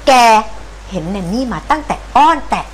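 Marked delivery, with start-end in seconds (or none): 0.1-0.1 scolding threat. Acted. Grandma berates the cat.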